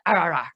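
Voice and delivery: short imitated dog correction; brief, to-the-point "ah ah ah"; quick correction noise. Trainer mimics the adult dog's correction to the puppy, quick and short. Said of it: "really quick, short, to the point message".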